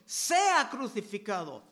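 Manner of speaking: mild crowd shout. Acted. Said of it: "gritaban aún más".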